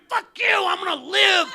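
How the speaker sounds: loud defiant yell back; defiant shout. Retold or imitated. Comic refusing to die, shouted at the doctors.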